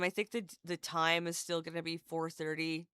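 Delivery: ordinary talk, nothing marked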